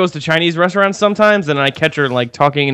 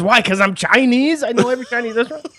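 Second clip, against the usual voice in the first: retold sitcom indignation, pitched up; imitated indignant comeback; 8 semitones higher than usual. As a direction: play the offended sitcom date. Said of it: "It's like that Seinfeld episode".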